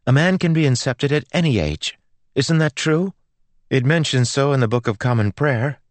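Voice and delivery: put-on high-pitched, argumentative girl; insistent girl. Girl cites the prayer book to the priest, insistent. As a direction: press the point in a high girlish voice.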